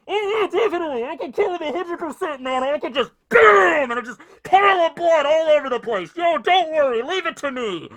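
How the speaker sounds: high, loud, cocky eager voice; way over the top, thrilled to fight; hyped-up bloodthirsty kid. Retold or imitated. Izuku hyped to kill.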